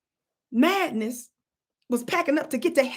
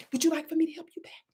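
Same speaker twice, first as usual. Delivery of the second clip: soft sweet offer; 3 semitones higher, 4 dB quieter, faster than usual. Retold or imitated. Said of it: "I said".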